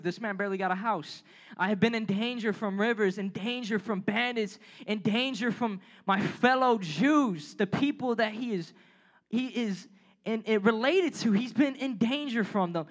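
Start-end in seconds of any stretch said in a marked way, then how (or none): 1.6-7.5 scripture reading. Acted. Pastor reads Paul's list of sufferings to the youth, measured reading. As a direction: read the verses with measured weight.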